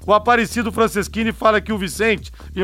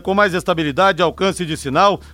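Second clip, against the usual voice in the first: upbeat radio ad read; infomercial. Acted. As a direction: sell the plan like a commercial. Reads sponsor ad on air.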